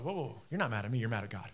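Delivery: low, soft de-escalation; retold calming down. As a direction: gently talk down an angry man, retold. Retells calming an angry man.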